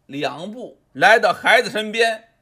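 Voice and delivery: ordinary delivery, nothing marked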